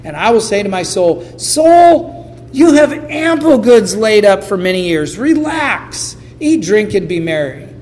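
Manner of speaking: rich fool gloating. Acted. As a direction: crow over the barns like a smug rich fool. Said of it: "And then he said".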